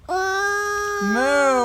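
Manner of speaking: a high, loud cow moo; Belinda's moo. Acted. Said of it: "Belinda said".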